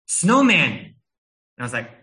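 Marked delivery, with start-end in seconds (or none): 0.1-0.7 put-on high, loud child's triumph; imitating a proud child showing off; proud and happy. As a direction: announce it like a delighted little girl. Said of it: "she was so happy and so proud of herself".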